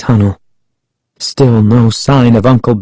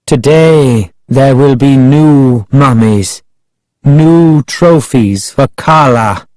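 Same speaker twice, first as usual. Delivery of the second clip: raised, measured proclamation; Ahmed announcing; 3 semitones higher, slower than usual. A narrator's reading. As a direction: announce it like a solemn ritual. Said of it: "Ahmed announced".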